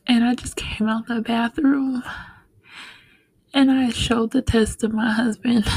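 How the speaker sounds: real tearful hush, voice close to breaking; emotional, half-whispered memory; getting emotional. Real, not acted. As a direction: hold back tears as you remember. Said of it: "I'm getting emotional thinking about it".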